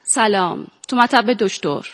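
put-on Persian with an Azeri Turkish accent; Ardabili Turkish accent. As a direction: play it with a light Ardabil accent. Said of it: "یه مقدارشو با لهجه بازی بکنید".

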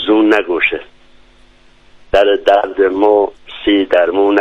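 slow, measured recital of a Bakhtiari poem; Bakhtiari verse recital. Shown as a demonstration. Guest recites a dialect poem for the host, slow verse recital. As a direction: recite it line by line with pauses, unhurried. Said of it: "یه شعر بختیاری هست".

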